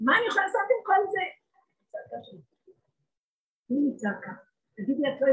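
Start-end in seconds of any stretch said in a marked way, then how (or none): 0.1-1.2 fast, high anguished outcry; shouting. Retold or imitated. Soul crying out to God, fast and high. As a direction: throw the question out in despair. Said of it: "את צועקת ואומרת".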